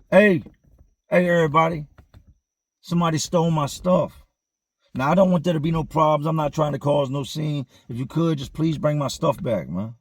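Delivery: loud call to everybody, softening to polite asking. Retold or imitated. Inmate calling out to the dorm about his stolen stuff, loud then pleading.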